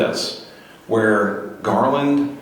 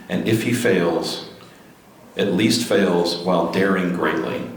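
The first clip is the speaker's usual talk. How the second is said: slow, measured recital of a famous speech; unhurried, solemn quote reading; quotation reading. Acted. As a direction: read it out phrase by phrase, with deliberate pauses. Reads a famous Roosevelt quotation aloud.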